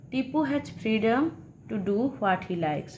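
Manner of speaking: very slow, word by word; slow dictation. Shown as a demonstration. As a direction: read it slowly for the class to copy. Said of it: "teacher reading example sentence". (ধীরে ধীরে পড়ে শোনানো)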